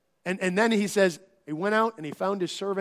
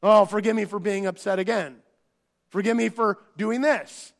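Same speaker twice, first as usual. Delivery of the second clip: rote apology. Retold or imitated. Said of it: "I would often say things like this".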